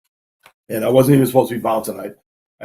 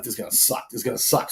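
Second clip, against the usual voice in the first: softer, resigned under the breath; muttered dread; 3 semitones lower, 11 dB quieter, faster than usual. Retold or imitated. Bouncer half-blind before a fight, quiet dread. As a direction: say it to yourself, bracing for pain.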